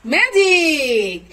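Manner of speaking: ম্যাজিক stretched very slowly and falling; drawn-out magic word. Shown as a demonstration. Mother drags out the word like a trick. (ম্যাজিক শব্দটা খুব ধীরে টেনে, জাদুকরের মতো)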